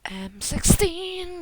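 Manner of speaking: slow, high sing-out; drawn-out callout. Real, not acted. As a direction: stretch it out slowly, rising high. Chants weapon name in game.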